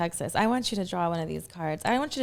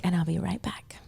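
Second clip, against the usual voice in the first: whispered; 4 dB quieter than usual. Real, not acted. Sign-off before the break.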